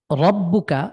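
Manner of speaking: রব্বুকা with a heavy, full র; Quran word demo. Shown as a demonstration. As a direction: read রব্বুকা with a thick র. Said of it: "উচ্চারণ করি রব্বুকা".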